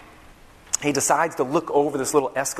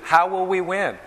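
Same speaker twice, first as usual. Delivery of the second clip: higher, louder alarmed plea; panicked servant cry; 6 semitones higher, 5 dB louder than usual. Acted.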